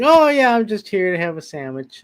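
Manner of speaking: big bright jolly Santa greeting; jolly Santa Claus. Retold or imitated. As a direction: play a cheery Santa Claus. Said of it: "Santa Claus saying".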